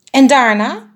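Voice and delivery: high, loud, small bird voice; anxious little bird. A narrator's reading. Anxious bird keeps asking the biggest bird what comes next, high and fretful. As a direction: pester with a high worried question.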